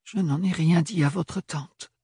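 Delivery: jeune femme hésitante, voix plus aiguë; Ophélie qui bredouille. A narrator's reading. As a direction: bredouiller d'une voix haute et incertaine. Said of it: "bredouilla-t-elle". (Ophélie se justifie auprès de Thorne, en bredouillant)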